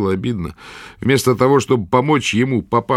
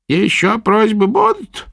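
high, loud crone's demand; gruff old witch; 12 semitones higher, 4 dB louder, slower than usual. A narrator's reading. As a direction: prod the patient roughly. Witch asks.

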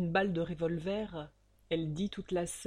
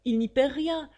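indignant; 6 semitones higher, 6 dB louder than usual. A narrator's reading. Indignant narrator remark.

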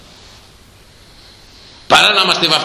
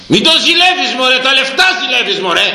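scolding cry; 11 semitones higher than usual. Real, not acted. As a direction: scold them sharply. Preacher scolds flock.

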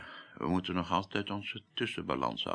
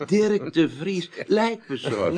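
higher, louder, slow amused astonishment; laughing disbelief; 8 semitones higher, 7 dB louder than usual. Acted. Pieter laughing at his former colleague's new undertaker job. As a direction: savour the absurd title through a laugh.

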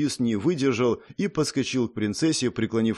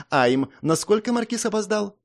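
princess demanding; 9 semitones higher than usual. Acted.

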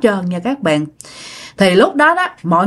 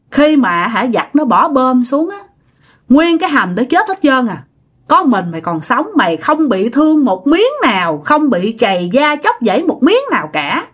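acted scolding with pitch often lifted; mildly heated telling-off, retold in character. Possessed great-aunt berates the man she once saved, mock scolding. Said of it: "mới chửi bác cả".

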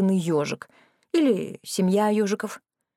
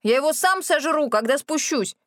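higher-pitched yell; yelling from above; 7 semitones higher than usual. A narrator's reading. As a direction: shout it down from the roof. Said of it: "заорал сверху Рэнди".

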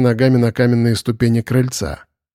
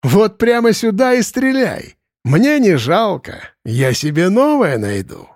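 high, slow jeering taunt; mocking dare; 8 semitones higher than usual. A narrator's reading. Possessed boy baiting Arkhip, high jeering dare. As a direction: goad him to fire.

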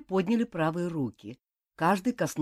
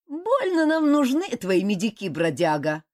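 a touch of scorn, higher; contemptuous; 5 semitones higher, 5 dB louder than usual. A narrator's reading. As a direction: sneer lightly at the tramp. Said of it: "презрительно сказал мечник".

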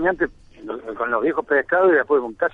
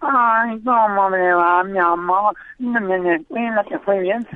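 higher, slow, sugary mum voice; doting mother; 6 semitones higher, much slower than usual. Acted. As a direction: coo over the kid like a fussing mother.

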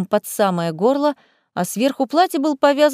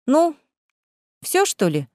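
yawning and weary; tired yawn; 4 semitones higher than usual. Acted. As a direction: yawn through it. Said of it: "устало зевнула рыжая".

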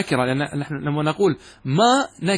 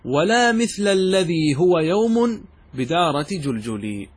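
slow paraphrase; slower than usual. Shown as a demonstration. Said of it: "يصبح المعنى هكذا".

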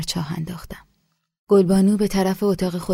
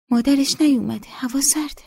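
whispered, pitched higher; worried whisper; 8 semitones higher than usual. A narrator's reading. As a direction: murmur it with concern. Nesa murmurs to narrator.

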